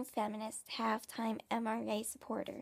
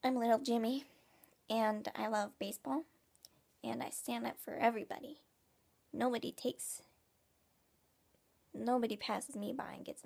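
little Jimmy. Acted. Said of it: "here's my impression of little nineteen fifties Jimmy".

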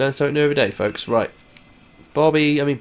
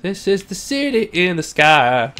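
slow announcement; 4 semitones higher than usual. Shown as a demonstration. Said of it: "I don't know a song to go with that".

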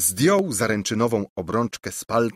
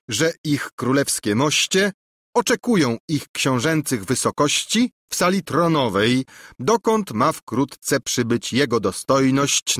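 higher, pompous court announcement; ceremonious herald; 5 semitones higher than usual. Acted. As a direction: proclaim it grandly and humbly.

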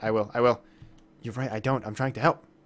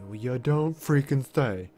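sarcasm; 3 semitones higher, 4 dB louder, slower than usual. Real, not acted. Sarcastic reply to obvious news.

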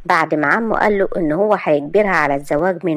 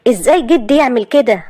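put-on young man protesting, pitched higher and louder; heated refusal; upset young man; 6 semitones higher, 4 dB louder than usual. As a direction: argue back at the uncle, hurt and stunned. Asad objects to grandfather.

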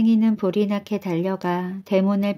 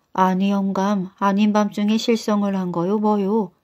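ordinary delivery, nothing marked

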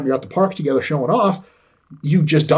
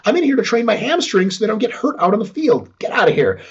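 much higher, mock incredulous dismissal; imitating an athlete scoffing at a critic; scornful athlete; 8 semitones higher than usual. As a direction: play the player brushing off a dumb question. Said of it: "And he's like".

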